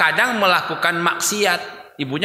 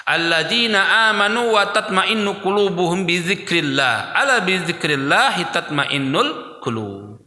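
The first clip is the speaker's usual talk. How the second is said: Quran recitation. Acted. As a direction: recite with reverent measured chant. (lantunan ayat yang pelan dan khidmat)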